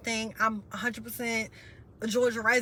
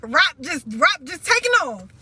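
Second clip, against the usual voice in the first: crying through words; 4 semitones higher, 9 dB louder than usual. Real, not acted. Breaks down mid-sentence.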